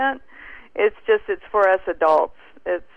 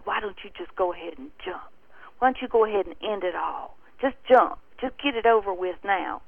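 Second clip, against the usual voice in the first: devil's urging voice; faster than usual. Retold or imitated. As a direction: rush the temptation in a hushed, quick voice. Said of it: "that devil voice".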